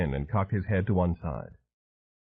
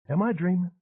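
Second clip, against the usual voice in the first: high, dazed Southern woman rambling on; wounded madwoman; 10 semitones higher than usual. A narrator's reading. Madwoman telling a singer about her grief, high and wounded. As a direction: let her drift, high and hurt. Rona voice.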